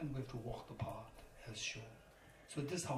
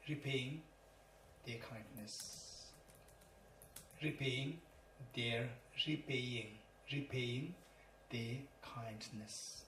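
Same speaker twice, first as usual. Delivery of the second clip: slow repeated dictation, fading softer; 7 dB quieter, slower than usual. Shown as a demonstration. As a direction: dictate so students can write it. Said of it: "Okay, in English".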